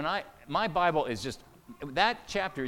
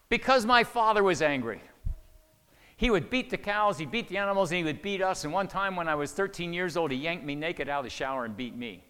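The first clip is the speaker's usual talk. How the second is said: angry outburst; 3 semitones higher, 5 dB louder than usual. Retold or imitated. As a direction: imitate a wounded, angry daughter pouring it out. Woman's bitter outburst about father.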